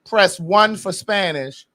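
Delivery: slow, deliberate automated menu voice; mock automated line reading out the options; mock phone menu. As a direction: drone it out like a recorded phone menu. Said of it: "it asks you".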